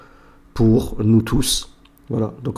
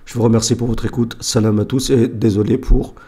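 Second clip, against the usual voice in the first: hoarse voice. Real, not acted. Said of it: "le fait que je sois enrhumé, ma voix rauque".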